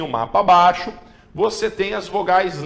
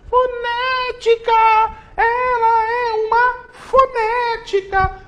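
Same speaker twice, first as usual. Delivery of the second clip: much higher, slow sing-song goofy voice; silly voice; slower than usual. Acted. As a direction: ham up a cartoonish silly character.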